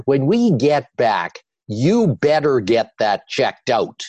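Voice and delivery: slow, firm wifely warning; slow it down and make it a gentle order. Retold or imitated. Wife warning her husband to see a doctor, slow and firm. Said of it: "in that tone of voice".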